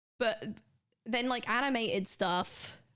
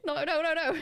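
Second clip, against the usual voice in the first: laughing no; 7 semitones higher, 4 dB louder than usual. Real, not acted. Laughing at her own slip.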